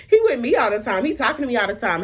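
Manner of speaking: indignantly baffled, voice up; insistent disbelief. Retold or imitated. Repeats protest, now raised and insistent.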